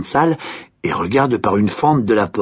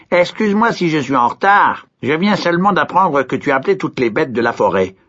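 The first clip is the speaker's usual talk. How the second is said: voix haute et vive de grenouille; petite grenouille aiguë; 6 semitones higher than usual. A narrator's reading. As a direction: une grenouille qui s'excuse, toute pressée. La grenouille répond. (grenouille qui s'excuse d'une voix aiguë)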